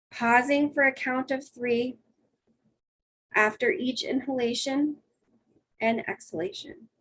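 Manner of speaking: calm guided breathing, long pauses between steps; soothing voice. Shown as a demonstration. Leading everyone in a one minute breathing exercise, soothing. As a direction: soothe them through each breath, unhurried. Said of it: "I'm gonna read with my soothing voice".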